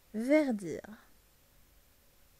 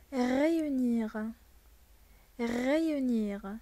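slow model word; slower than usual. Shown as a demonstration. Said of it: "Par exemple".

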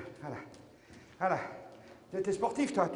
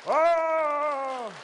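silly clown; 2 semitones higher, 5 dB louder than usual. Acted. Clown exclamation.

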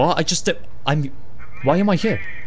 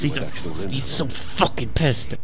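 mock seething character voice; imitating angry talk; slower than usual. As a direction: mimic someone talking while really pissed off. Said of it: "He's, like, fucking talking like this".

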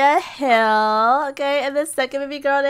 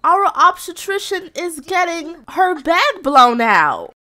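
higher, slow drawn-out exclaiming; exclamatory report; 5 semitones higher, slower than usual. Real, not acted. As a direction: stretch the words out in high disbelief. Shocked report to viewers.

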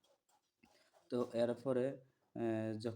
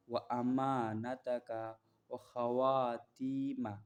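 stretched out syllable by syllable; slow Arabic recitation; much slower than usual. Shown as a demonstration. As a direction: draw the word out for learners. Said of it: "সফরকারীকে বিদায় দেওয়ার দোয়া।".

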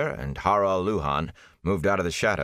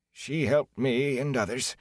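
pleading; 7 semitones higher than usual. A narrator's reading. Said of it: "he went on in a pleading tone".

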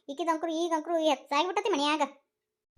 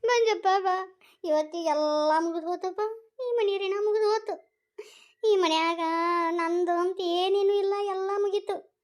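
tearful lament. Acted. Mother complaining to her son about the household, tearful lament. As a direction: play up the tears for sympathy. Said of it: "ಯಾಕ್ ಅಳಕತ್ತಿ".

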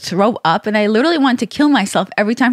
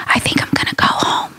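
retold whisper. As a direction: whisper it like he's sneaking out. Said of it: "I finally hear him whisper".

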